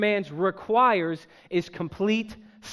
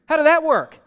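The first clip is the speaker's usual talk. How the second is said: loud incredulous question; 7 semitones higher, 8 dB louder than usual. Real, not acted. Rhetorical question to congregation.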